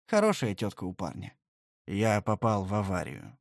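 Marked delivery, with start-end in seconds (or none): 1.9-3.4 low, somber delivery; gloomy tone. A narrator's reading. Nephew admitting the accident to his aunt, gloomy. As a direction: say it darkly, heavy. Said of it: "мрачным тоном".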